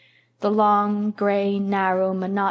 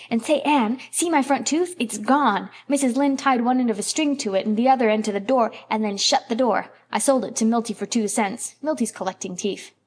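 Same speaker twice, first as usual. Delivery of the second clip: lightly voiced eager boy; 3 semitones higher than usual. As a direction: rattle on like an excited child. Davy's lines in the story.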